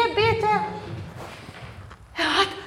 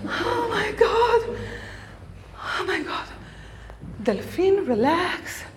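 soothing whisper; 5 dB quieter than usual. Acted. Soothing possessed body, breathing.

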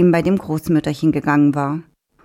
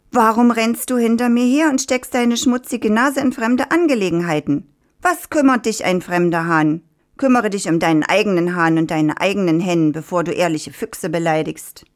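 fox ranting; 3 semitones higher than usual. Acted. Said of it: "Er schrie und keifte".

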